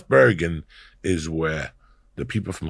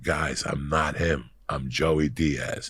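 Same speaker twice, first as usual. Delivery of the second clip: calm denial; 5 semitones lower, 6 dB quieter, slower than usual. Retold or imitated. Denying being the actor.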